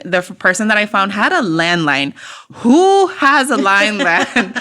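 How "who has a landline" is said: drawn out, laughing disbelief; amused disbelief. Real, not acted. Storyteller amazed at a landline, amused disbelief. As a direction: marvel slowly through a laugh.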